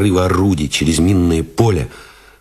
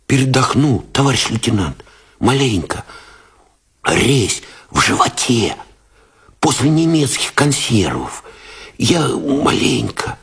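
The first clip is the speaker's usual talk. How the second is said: weary, higher mumbling soldier; tired mutter; 7 semitones higher than usual. A narrator's reading. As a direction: mumble it out, worn out. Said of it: "бормотал усталым голосом".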